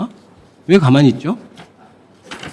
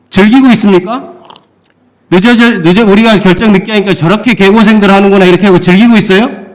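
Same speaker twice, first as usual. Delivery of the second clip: biting, raised sarcastic question; sarcastic accusation; 4 semitones higher than usual. Real, not acted. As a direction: accuse them with scorn. Mocking official's indifference.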